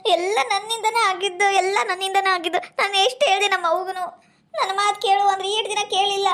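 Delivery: acted crying with self-blame; tearful. Daughter blaming herself over her fainted mother, tearful. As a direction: wail mildly, blaming yourself. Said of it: "ಅಳಬಾರ್ದವಾ".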